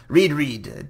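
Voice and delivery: laughing squeaky rat voice. Acted. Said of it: "I don't know how to do the rat voice".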